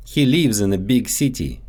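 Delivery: lives said as "leevz" with a long ee; Russian-accented "lives" stretched to leevz. Shown as a demonstration. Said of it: "so they often get mixed up in English".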